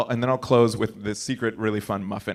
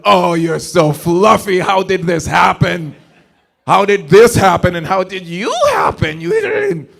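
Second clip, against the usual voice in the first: doting dog owner; 6 semitones higher, 7 dB louder than usual. Retold or imitated. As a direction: coo at the dog, higher and louder. Talking to his fluffy dog.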